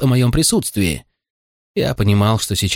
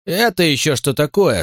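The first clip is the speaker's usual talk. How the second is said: stern; 7 semitones higher than usual. A narrator's reading. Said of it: "строго спросил шериф".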